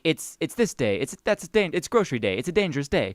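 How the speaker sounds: badly faked Australian cartoon voice, lightly done; terrible Rocco impression. Podcaster demonstrates a cartoon character's catchphrase, mild mock Australian. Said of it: "my terrible Rocco impression".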